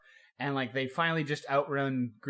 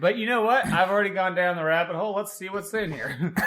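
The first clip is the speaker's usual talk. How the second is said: excited; 5 semitones higher, 6 dB louder than usual. Real, not acted. Playing along, laughing.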